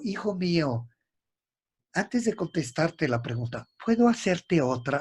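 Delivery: a gentle, humble question from the teacher; humbly. Retold or imitated. Master humbly asks his student a question, gently. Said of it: "Así como humildemente".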